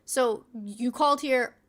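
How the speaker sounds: slow, high-pitched rebuke; incredulous scolding. Real, not acted. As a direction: draw out each point in disbelief at the caller. Scolding caller over repeated calls.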